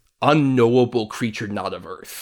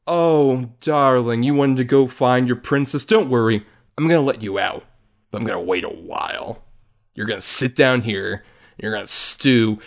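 megalomaniac rant. Retold or imitated. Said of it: "Maleficent just comes over just like".

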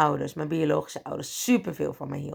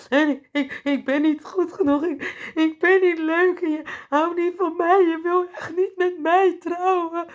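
put-on high, wailing childlike sob-talk, higher and louder; crying like a child; 11 semitones higher, 4 dB louder than usual. Crying to her boyfriend on the phone, wailing like a child. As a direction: blubber it out like a small kid. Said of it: "Echt als een klein kind".

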